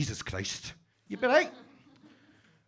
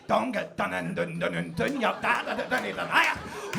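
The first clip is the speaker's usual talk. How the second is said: getting into it. Retold or imitated. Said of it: "I start getting into it".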